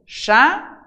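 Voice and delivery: "Chapéu" broken as "cha... péu"; "Chapéu" syllable by syllable, stressing the last; split into syllables. Shown as a demonstration. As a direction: lift "cha", pause, then land on "péu" in "Chapéu". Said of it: "qual é a tônica".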